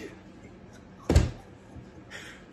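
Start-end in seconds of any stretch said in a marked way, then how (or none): 0.0-0.1 laughing. Retold or imitated. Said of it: "This man is like".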